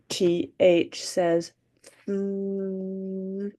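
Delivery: th held with voice, humming; voiced th sound. Shown as a demonstration. Teacher showing the kids a voiced th. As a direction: buzz the th with your voice. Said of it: "do it with our voice".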